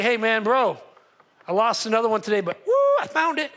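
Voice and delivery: loud, laughing brag to a buddy; bragging shepherd. Retold or imitated. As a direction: boast to your friends with a laugh.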